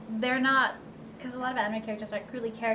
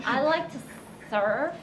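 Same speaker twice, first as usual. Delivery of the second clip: put-on Valley Girl voice; 2 semitones higher than usual. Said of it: "her Valley Girl".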